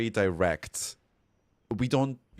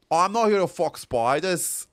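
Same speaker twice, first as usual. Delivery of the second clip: louder, higher meme quote; quoted meme line; 8 semitones higher, 6 dB louder than usual. Retold or imitated. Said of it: "The only thing I can say is".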